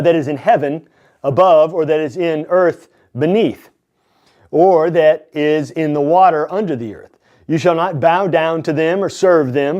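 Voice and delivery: deliberate, emphatic reading of God's commandments; scripture reading. Acted. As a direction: proclaim each commandment in measured phrases. Reads scripture aloud.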